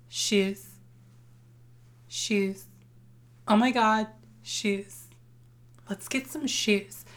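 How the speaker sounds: deadpan, spaced-out one-word refrain; Kelly. Acted. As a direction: imitate a YouTube queen, understated, with long pauses. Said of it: "Kelly from YouTube, the original YouTube queen, she said".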